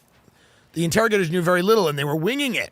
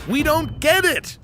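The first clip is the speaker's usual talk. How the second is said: higher, slow, baffled; hammed-up bafflement; mock confused torturer; 8 semitones higher, slower than usual. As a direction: stretch it out in disbelief.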